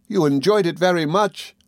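high, mildly sobbing wife; tearful reproach. A narrator's reading. Dora defending the salmon, mildly tearful. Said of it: "sobbed Dora".

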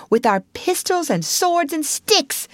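excited call without full volume; excited mild shout. Acted. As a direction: join in the battle plan eagerly. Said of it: "shouted the Rat".

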